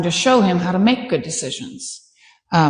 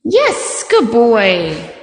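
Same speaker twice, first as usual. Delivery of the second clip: praise to the dog; much slower than usual. Real, not acted.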